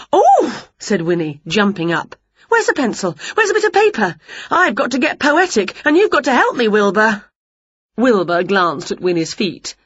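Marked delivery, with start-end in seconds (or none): 0.1-0.7 high loud gasp of excitement; excited gasp. A narrator's reading. Witch jumping up excited. 2.5-7.2 high, flustered and eager; excited witch. A narrator's reading. Witch rushing to write poem.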